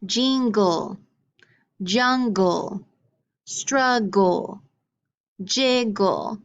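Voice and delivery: jingle, jungle, struggle, jiggle, each with a full "gul" ending; syllable-by-syllable demo. Shown as a demonstration. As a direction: model jingle, jungle, struggle, jiggle in two deliberate beats. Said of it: "you hear the gul sound".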